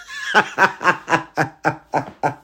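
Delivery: laughing at her own joke. Real, not acted. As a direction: burst of real laughter.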